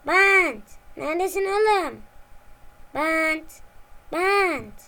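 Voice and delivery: loud searching calls across the room; calling out loud. Acted. Eraser calling for the missing tape, loud calls. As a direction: shout the name to find him.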